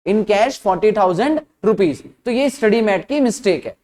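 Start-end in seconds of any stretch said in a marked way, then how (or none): 0.1-2.0 slow repeat with pauses before "forty thousand" and "rupees"; measured, deliberate read-out; careful reading. Shown as a demonstration. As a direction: read "in cash forty thousand rupees" in separate, falling chunks. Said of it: "line का मतलब अगर ध्यान से देखो".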